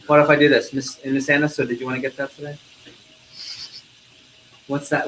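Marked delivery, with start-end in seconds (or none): 0.7-2.6 offputting. Shown as a demonstration. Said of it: "What happens when I do that?".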